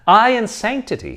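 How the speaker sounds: a student aghast at being called holy; exclaimed. Acted. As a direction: shriek at the very idea. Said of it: "he exclaimed".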